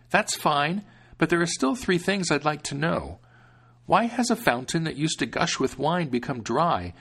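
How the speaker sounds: put-on eager young man answering; young hero. Hero asks three questions.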